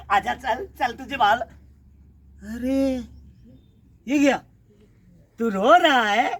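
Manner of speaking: ordinary talk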